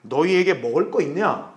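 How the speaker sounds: slow, lightly voiced Lord's question; the Lord asking. The Lord questions his disciples, lightly voiced role. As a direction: ask slowly, a hint of divine authority. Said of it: "주님께서 우리에게 물으신다고요".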